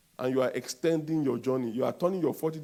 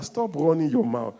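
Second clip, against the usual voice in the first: firm, louder repeat; louder than the first time; louder command; 4 dB louder than usual. Shown as a demonstration. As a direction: tell your neighbor firmly. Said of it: "Tell your neighbor".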